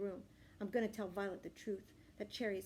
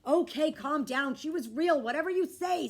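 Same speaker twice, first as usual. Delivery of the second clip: dad humoring; 6 semitones higher, 11 dB louder than usual. A narrator's reading. Dad humoring panicking kid.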